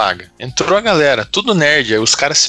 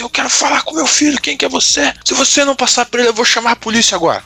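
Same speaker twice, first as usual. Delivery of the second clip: high-pitched mock of a furious mom; angry mother on the phone; 10 semitones higher than usual. Mother threatening the guys on the phone, in a high mock voice. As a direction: play the mother threatening to call the police. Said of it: "ela falou assim".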